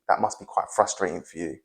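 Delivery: empathetic. Shown as a demonstration. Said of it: "But me saying to Katie".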